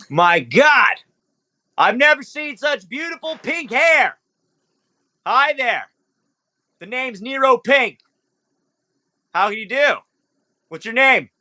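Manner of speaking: high, bright-eyed charmer; flirty club owner. Acted. Club owner flirting with Sakura, high and smooth. GM voices Nero Pink.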